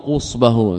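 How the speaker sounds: قصبه with a "qu" first syllable; damma on the qaf. Shown as a demonstration. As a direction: say قصبه as "qusbahu", short u after the qaf. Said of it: "بضم القاف".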